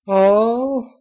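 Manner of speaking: put-on high whiny little girl voice; young filly whine. A narrator's reading. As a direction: whine it like a let-down kid. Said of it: "the yellow pony whined".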